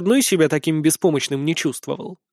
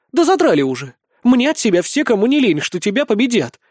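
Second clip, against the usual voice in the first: irritated retort; 6 semitones higher, 3 dB louder than usual. A narrator's reading. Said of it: "отбрыкнулась жёнушка".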